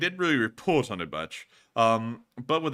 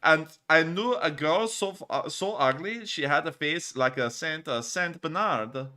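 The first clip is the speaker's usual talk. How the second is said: mock German accent; 2 semitones higher than usual. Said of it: "time to get into the German accent".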